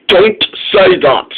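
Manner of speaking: a touch of stern rebuke; crossly. Acted. Fat Controller stopping Norman talking of Diesel ten, mildly cross. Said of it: "said the Fat Controller crossly".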